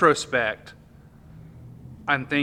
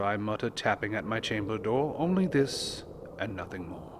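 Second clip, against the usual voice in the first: dramatic poem reading. Acted. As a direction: read it like a candlelit ghost story. Reads The Raven aloud.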